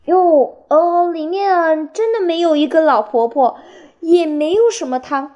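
high, loud, stalling little hedgehog cover-up. A narrator's reading. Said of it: "刺猬弟弟紧张地说". (提高音调，略带紧张地掩饰)

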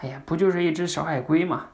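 a hint of an impatient dad; dismissive father. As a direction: brush off the child's tears, in mild exasperation. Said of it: "爸爸会说什么".

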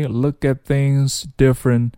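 "look at things" linked, t of at silent; no audible t in "at" before "things"; dropped t. Shown as a demonstration. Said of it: "look at不读出来".

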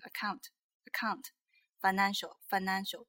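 account and financial with the N left out; dropped N. Shown as a demonstration. Teacher imitating common mistake, missing N in account, financial. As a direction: skip the N after the A in account and financial. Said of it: "都经常漏掉了".

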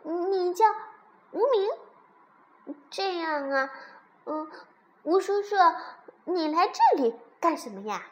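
put-on high, loud baby dino voice; little crybaby dinosaur. A narrator's reading. Baby dinosaur questioning his new uncle, high and curious.

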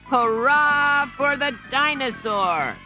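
put-on high, loud kid cheer; children cheering. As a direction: shout hooray like happy kids. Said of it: "the children cried".

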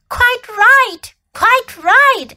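high, eager beaver voice; lisping buck-toothed beaver. Acted. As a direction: play a small timid forest beaver. Beaver character voice.

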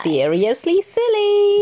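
excited. Real, not acted. Delighted reaction.

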